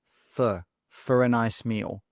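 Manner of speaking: "for" as a low, unstressed fuh; weak for. Shown as a demonstration. Teacher repeats the phrase for learners, weak for. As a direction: reduce "for" to schwa, linked into "a". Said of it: "when do we use weak forms".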